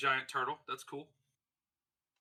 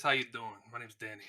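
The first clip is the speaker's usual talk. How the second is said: put-on Boston accent; 3 semitones lower, 3 dB quieter than usual. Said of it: "so he kinda talks like this".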